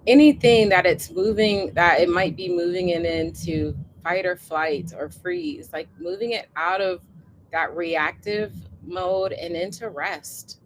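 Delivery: guided meditation. Acted. Leads body scan and breathing.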